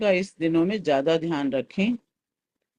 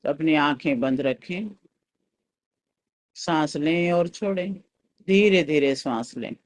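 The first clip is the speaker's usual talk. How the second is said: guided meditation. Real, not acted.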